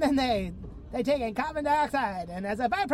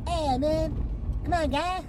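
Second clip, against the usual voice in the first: put-on higher, protesting Canadian accent; Canadian scientist; 7 semitones higher than usual. Canadian scientist protesting to the patient, mock Canadian accent. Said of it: "And he's like".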